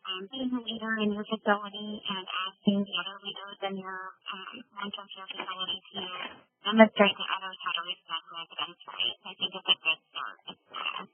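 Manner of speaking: fading phone line; crackly cordless phone. Real, not acted. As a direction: voice dropping in and out on phone. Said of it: "You, you're fading in and out just a little bit".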